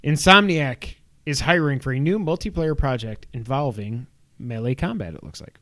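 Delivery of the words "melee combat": "melee combat" said oddly, with a pitch jump on "combat"; odd pronunciation. Real, not acted. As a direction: say "melee combat" as MELL-ay COM-bat, pitch leaping late. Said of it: "I don't know why I said it like that".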